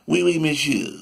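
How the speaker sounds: lightly put-on French accent; mock French speaker. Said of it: "We all don't talk with a French".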